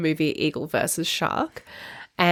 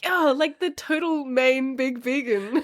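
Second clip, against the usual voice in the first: frustrated; 5 semitones higher than usual. Retold or imitated. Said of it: "he got frustrated".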